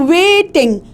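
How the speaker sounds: "waiting" with a long, stressed "wai"; tonic stress. Shown as a demonstration. Teacher pointing out tonic stress, "waiting" with long first syllable. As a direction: lean on "wai" in "waiting", fall away after it. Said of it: "ये जो हम stress दे रहे हैं".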